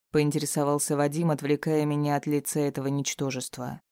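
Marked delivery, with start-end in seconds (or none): none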